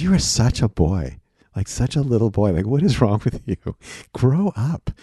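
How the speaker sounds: lightly voiced girlfriend scolding her boyfriend; mock scolding girlfriend. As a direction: play the exasperated girlfriend calling him a boy. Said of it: "She goes".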